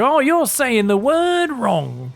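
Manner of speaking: high, drawn-out mock complaint; imitated American. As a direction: mimic a fussy American correcting him, slow and high. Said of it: "So you kinda go".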